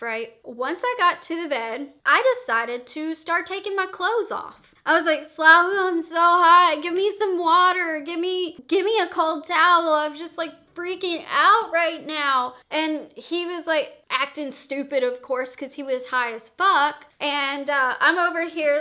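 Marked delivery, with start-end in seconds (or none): 5.4-12.5 panicky plea. Retold or imitated. Begging boyfriend, overheated, panicking.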